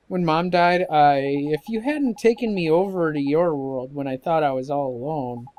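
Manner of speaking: lightly voiced boy, subdued and pleading; earnest young boy.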